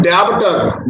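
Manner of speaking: डेब्टर with the b sounded; wrong pronunciation. Shown as a demonstration. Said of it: "ये गलत pronunciation होती है डेब्टर". (गलत उच्चारण डेब्टर)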